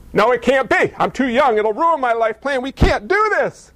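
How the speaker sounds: hypothetical doubting Mary. Pretend. Imagined doubting Mary protests.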